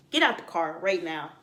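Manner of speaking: mean it, set it down hard; firm order. Retold or imitated.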